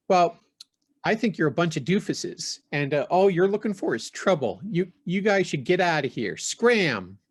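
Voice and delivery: threatening warning. Acted. Woman raises knife at strangers.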